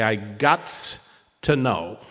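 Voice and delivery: slow, lightly voiced friend's catchphrase; drawn out and deliberate; quoting a friend. Speaker quoting late best friend, slow and deliberate. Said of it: "used to say".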